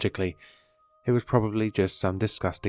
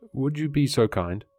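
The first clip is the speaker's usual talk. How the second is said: muffled voice; 5 semitones higher than usual. A narrator's reading. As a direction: voice muffled through glass. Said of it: "began to project a muffled voice".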